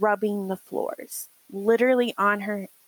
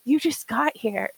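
higher, slow, emphatic mock outrage; mock indignation; 5 semitones higher, slower than usual. To brother after days of caretaking, mock indignation. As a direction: punch each hardship in hammed-up exasperation.

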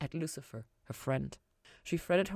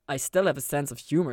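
protesting; 8 dB louder than usual. A narrator's reading. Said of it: "he protested".

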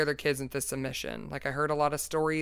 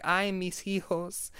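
weeping ghost woman; 4 semitones higher, slower than usual. Retold or imitated. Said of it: "saying things like".

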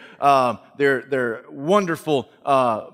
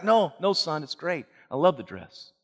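much softer, gentle denial; quiet mother; 5 dB quieter than usual. Acted. Mother softly assuring her son about the dress. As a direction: reassure him with a heavy heart.

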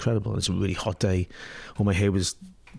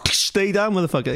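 laughing mock threat, higher; retelling the thug's line with a laugh; tough street guy; 11 semitones higher, 4 dB louder than usual. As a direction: quote the whip guy for a laugh.

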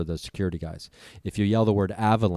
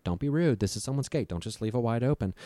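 higher-pitched imitation of a scolding mom; mom's nagging voice; 5 semitones higher than usual. Mom in his head about the gate, mock scolding. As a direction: play mom reminding you of manners, pitched up. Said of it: "my mom's in my head".

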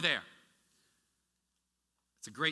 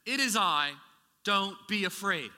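louder, higher calm assurance; Jesus reassuring; 4 semitones higher, 5 dB louder than usual. Acted. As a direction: speak as Jesus calming frightened disciples. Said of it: "But he said to them".

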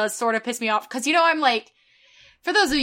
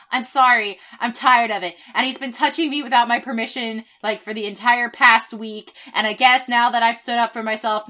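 real fed-up rant, getting louder; really angry; 5 dB louder than usual. Real, not acted. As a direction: vent heated frustration at being talked down to. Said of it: "I'm, I'm really angry".

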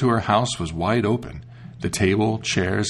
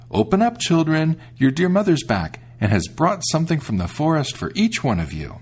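higher, sugary wolf voice; sweet fake mother voice; 6 semitones higher than usual. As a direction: lure the kids in sweetly. Wolf poses as mother again.

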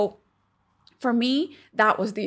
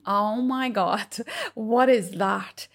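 laughing disbelief; slower than usual. Retold or imitated. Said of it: "That was my body saying".

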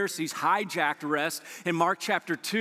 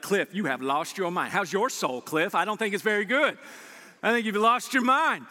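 incredulous. Retold or imitated. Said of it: "You're like".

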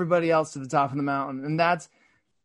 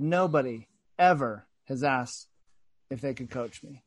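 teary quote; 4 semitones lower than usual. Retold or imitated. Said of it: "He started crying".

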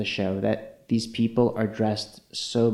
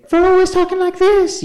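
Laganja; 7 dB louder than usual. Retold or imitated. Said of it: "read Laganja for having a false personality".

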